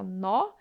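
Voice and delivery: "nó" with an open O; open vowel in "nó". Shown as a demonstration. Teacher showing why it takes an acute accent, open O in "nó". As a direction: say "nó" with the O open, not closed. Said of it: "Como é um som aberto".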